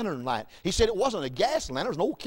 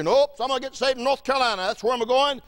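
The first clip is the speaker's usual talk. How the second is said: imitated stubborn insistence; 5 semitones higher, 3 dB louder, faster than usual. Husband insists against his wife.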